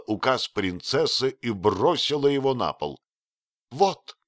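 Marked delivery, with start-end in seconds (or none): 3.7-4.2 резкий высокий выкрик; бросить слово вызовом; крикнула. Acted. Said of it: "крикнула она". (высокий громкий возглас)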